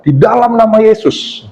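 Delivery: re-enacted group prayer; prayer declaration. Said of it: "kita declare".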